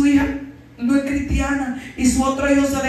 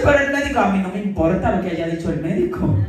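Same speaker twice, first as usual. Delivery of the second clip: mock protest; 6 semitones lower, faster than usual. Mother argues, louder.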